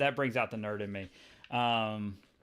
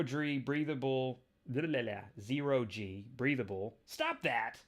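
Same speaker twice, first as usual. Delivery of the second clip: Peter voiced. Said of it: "And that's Peter saying".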